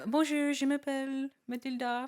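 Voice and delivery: French accent. Shown as a demonstration. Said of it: "My name is"?".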